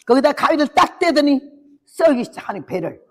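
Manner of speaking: normal talking voice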